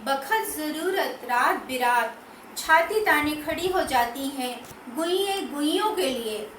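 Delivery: measured poetry reading, phrase by phrase with pauses; poem recitation. Acted. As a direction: recite the verse with deliberate lilting emphasis. Recites her third poem.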